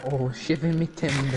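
lightly voiced pirate "shiver me timbers"; a hint of an old sea dog; mock pirate. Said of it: "who says that".

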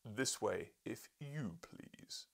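very slow, grand invitation; dignified. Acted. Professor to the journalist, a very slow dignified invitation. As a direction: usher him in grandly, slowly. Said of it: "great accession of dignity".

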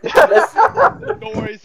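high stretched laugh. Real, not acted. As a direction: laugh it out slowly.

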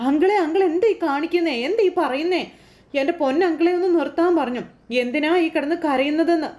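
exasperated scolding. Retold or imitated. Daughter scolding wailing uncle.

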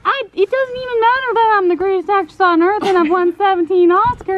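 put-on light Kentucky accent, quick and boastful. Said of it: "Where did that accent come from?".

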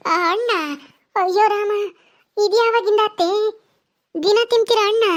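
high-pitched, incredulous questioning; astonished. Acted. Daughter-in-law hears mother-in-law wants fruit daily, astonished. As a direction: gasp it out in rising disbelief.

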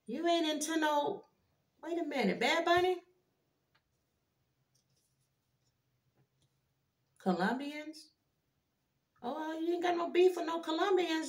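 high, soft, stunned voice; hushed disbelief. Real, not acted. Reader reacts to a shocking card, high hushed disbelief. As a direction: go high and quiet, as if you can't believe it.

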